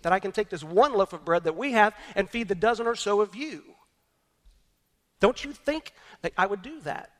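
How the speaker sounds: Jesus pressing his disciples, frustrated; frustrated rebuke. Acted. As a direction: press them, baffled they still don't see. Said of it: "as if in frustration he says".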